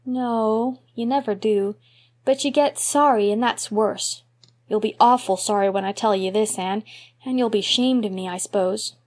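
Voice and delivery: lightly voiced anxious boy; a boy dreading his confession; worried little boy. Davy frets to Anne.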